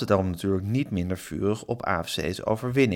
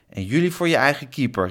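raised, higher parting shout; calling after someone; 4 semitones higher, 4 dB louder than usual. A narrator's reading. Klaas shouting after the departing Eddy, calling out. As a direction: call a retort after him. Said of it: "riep Klaas hem achterna".

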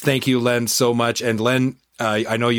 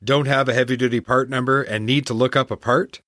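chipper 1950s ad; 2 semitones higher than usual. Acted. Host reads sponsor ads.

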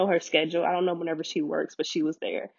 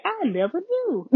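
high, slow, laughing through the words; laughing quote; 11 semitones higher than usual. Retold or imitated. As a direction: let a laugh carry the disbelief.

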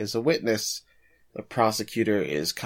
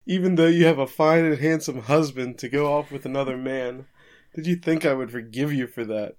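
mock-anguished husband, pitch raised; higher, aggrieved plea, dragging at the end; pained Kogoro; 5 semitones higher than usual. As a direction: plead as if wounded, hammed up a little. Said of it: "Kogoro is just in pain here".

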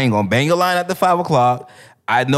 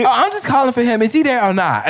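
giving attitude; 8 semitones higher than usual. Retold or imitated. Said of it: "now you giving her attitude".

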